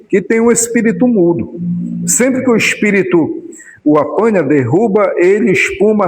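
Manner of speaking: measured, declaimed Bible reading; solemn read-aloud with phrase breaks; scripture reading. A narrator's reading. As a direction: read the passage out to a congregation.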